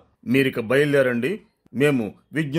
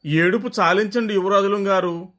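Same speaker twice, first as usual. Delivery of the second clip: pleading; 4 semitones higher than usual. Acted. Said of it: "బతిమాలుకున్నట్టుగా అన్నాడు".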